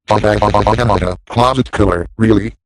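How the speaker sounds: slow, incredulous repeat; mocking disbelief. Real, not acted. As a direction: drag it out in scorn. Mocking the scary logo name.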